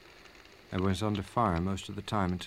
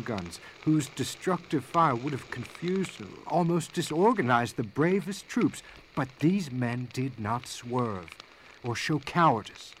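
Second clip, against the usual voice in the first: stirring battle account; 2 semitones higher, 3 dB louder than usual. Acted. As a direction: voice climbing as the fight comes back to him. Officer's battle account rising in intensity.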